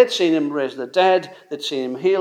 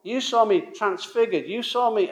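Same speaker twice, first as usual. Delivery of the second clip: raised, pleading list of proofs; exasperated; 4 semitones higher than usual. Retold or imitated. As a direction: remind them, growing fed up. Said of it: "you can imagine him saying".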